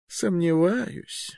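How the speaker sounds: high, very slow skeptical drawl; doubting old magister. Acted.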